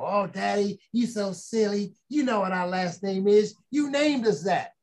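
a hint of a child teasing daddy; middle girl. Girl answering daddy's silly question, lightly imitated daughter. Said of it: "My middle girl".

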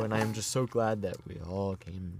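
imitating a solemn elder's address; lightly voiced, measured preacherly greeting; grandpa's welcome. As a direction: greet the congregation like an old grandpa. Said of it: "It gets so deep that it's just like".

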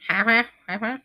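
short, stuttered "ha, ha, ha" in a funny voice; odd-voiced laugh. Real, not acted. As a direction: let out an odd little staccato laugh. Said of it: "what the fuck was that voice".

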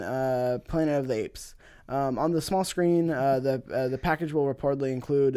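even, measured reading of a news item; podcast host reading business news. Real, not acted. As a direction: read the report out straight. Reads out a news article.

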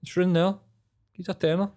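high mocking voice. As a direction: taunt like a beggar. Mocking the money demand.

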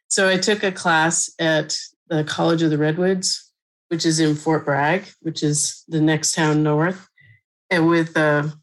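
winded from climbing stairs; out of breath. Real, not acted. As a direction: talk while catching your breath. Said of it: "sorry, I'm out of breath".

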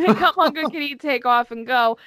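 re-read it while laughing; laughing quote. Retold or imitated.

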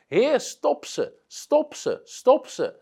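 high, slow, strained retold cry to God; retold shouted prayer. Preacher cries out at the deathbed, high, slow shout. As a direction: belt it out as if heard on the street. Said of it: "schreeuwt Smith Wigglesworth zo hard".

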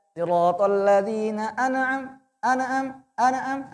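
"an'am" bounced on the nun; wrong bouncing pronunciation. Shown as a demonstration. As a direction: demo the error: bounce "an'am". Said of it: "Nah, salah".

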